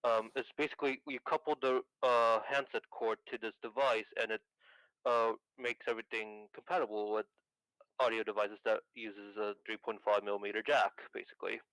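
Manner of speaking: thin, crackly telephone voice; carbon mic. Real, not acted. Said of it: "you do sound like a phone".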